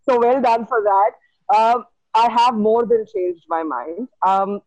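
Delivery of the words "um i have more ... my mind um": muffled behind a mask; through a face mask. Real, not acted. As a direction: talk through a cloth mask. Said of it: "I have this mask on".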